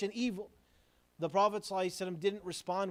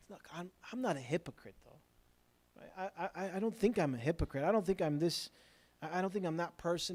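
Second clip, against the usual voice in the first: softer, stammering self-defence; hesitant denial; 2 semitones lower, 4 dB quieter than usual. Acted. Listener denying being a hypocrite, hesitant denial. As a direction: protest mildly, tripping over the first words.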